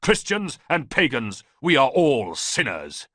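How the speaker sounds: loud, high zealous preaching, slowing at the end; fervent declaration. A narrator's reading. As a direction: proclaim his reason with conviction. Priest answers Ballista fervently.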